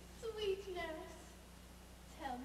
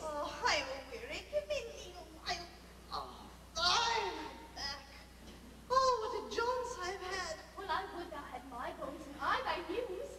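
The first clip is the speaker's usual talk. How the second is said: put-on grumbling old nurse, aching; weary old nurse. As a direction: groan it like a tired old woman. Nurse complains of weariness.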